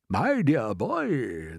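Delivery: slow, lightly voiced kindly elder; old grasshopper. Grasshopper patting James on the back, slow. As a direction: draw it out fondly.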